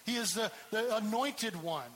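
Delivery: ordinary talk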